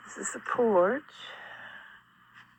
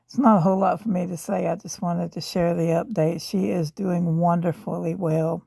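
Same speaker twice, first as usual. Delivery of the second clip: rough, worn-out voice from a sore throat; hoarse sick voice. Real, not acted. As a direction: speak through an inflamed throat. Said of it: "my voice is really, really bad".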